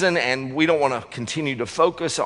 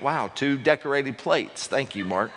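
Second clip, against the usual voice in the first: mock disappointed thanks; 3 dB quieter than usual. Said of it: "opened that up and went".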